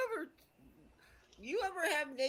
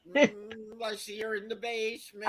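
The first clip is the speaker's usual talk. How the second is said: mock psychic voice. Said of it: "he's doing the mental telepathic".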